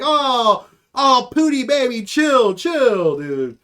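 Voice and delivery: hammed-up "relax, baby"; mock reassurance. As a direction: talk a pal down, exaggerated. Acted friend calming caller on phone.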